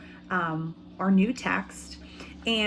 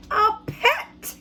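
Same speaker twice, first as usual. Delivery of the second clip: put-on much higher, excited child's voice; excited boy; 13 semitones higher, 4 dB louder than usual. Teacher voicing the boy who caught a fly, excited. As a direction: squeal it like a delighted kid. Boy character in read-aloud.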